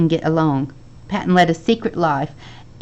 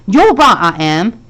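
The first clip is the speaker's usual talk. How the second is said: husky voice; 7 dB louder than usual. A narrator's reading. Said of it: "said a husky voice".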